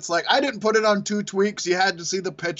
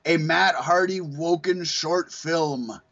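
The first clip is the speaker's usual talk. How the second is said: slow, drawn-out theatrical delivery; mock-mysterious slow announcement; Goldust reading a tweet; much slower than usual. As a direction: stretch each phrase, rising on the last word. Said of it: "Gold Dust, he put out a tweet, said".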